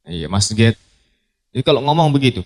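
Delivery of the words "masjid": "masjid." with jim as hard G, "masget"; Egyptian way. Retold or imitated. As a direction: lightly imitate Egyptian masjid. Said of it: "jimnya jadi G semua".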